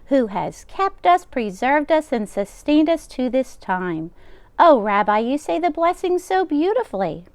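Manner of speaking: put-on old grandmother voice. Old baba taking the rabbi's coat, high and fussing. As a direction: bustle like a kind deaf baba. Baba voicing lines to Bear.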